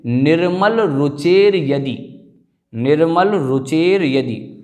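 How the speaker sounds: slow निर्मल रुचेर यदि, र after the ए; careful pronunciation. Shown as a demonstration. Teacher models निर्मल रुचेर यदि slowly for students. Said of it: "चकार के एकार के बाद".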